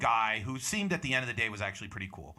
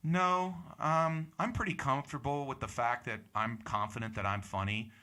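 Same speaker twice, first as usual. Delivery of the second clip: calm, matter-of-fact. Retold or imitated. Comic replays answering a heckler at the mic, calm. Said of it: "just in this tone".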